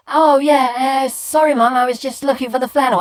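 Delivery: high, loud, hurried apology; child's hasty excuse. Acted. Boy excusing noise to mum downstairs, hasty apology. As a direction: call back innocently, hesitating then rushing.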